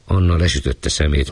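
usual speaking voice

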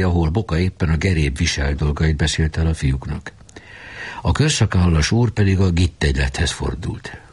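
plain reading voice

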